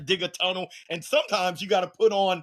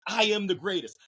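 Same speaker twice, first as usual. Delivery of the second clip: confident affirmation; 5 semitones higher than usual. Shown as a demonstration. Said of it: "we gotta manufacture it".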